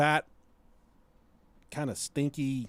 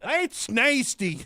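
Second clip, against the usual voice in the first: the one guy groaning in hammed-up disgust, higher; disgusted yokel; 7 semitones higher, slower than usual. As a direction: drag out the disgust. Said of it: "The one guy said".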